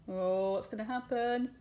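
plain reading voice

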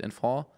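"Enfant" tried French-style, silent final t, rising; unsure French pronunciation. Real, not acted. Reader puzzles over a French word, "Enfant" with silent final t. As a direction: say "Enfant" questioningly with an open "on" ending. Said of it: "wie man das Wort ausspricht".

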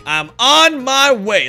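drawn-out hero call; heroic call. Acted. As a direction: announce it like a rescuer.

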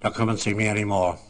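dying George gruffly telling visitor to stay away, gruff and firm. Retold or imitated. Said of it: "he said rather gruffly".

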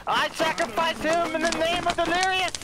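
mock ritual proclamation. Mock sacrifice of the goat.

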